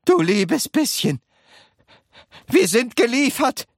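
high-pitched cry of doom; shouting. A narrator's reading. Wonka realising they are done for, shouting. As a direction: wail it out in alarm. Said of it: "schrie Mister Wonka".

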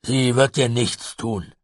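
lauter, hoher Zuruf zur Beruhigung; beruhigender Ragnar. A narrator's reading. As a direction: die Kinder laut und langsam beruhigen. Ragnar beruhigt die Kinder. (beruhigend zugerufen)

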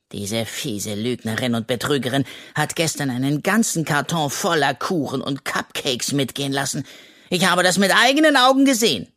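lightly voiced cheeky raccoon, easy and carefree; a hint of a greedy little raccoon, unbothered; raccoon Henry. (Waschbär Henry, leicht verstellt und unbekümmert)

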